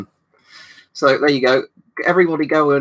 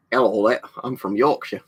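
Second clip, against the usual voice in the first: put-on half-hearted Yorkshire accent; attempted Yorkshire accent. Streamer answering a chatter, weak attempt at Yorkshire accent. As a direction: have a poor go at Yorkshire. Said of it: "That's not even a very good attempt at one".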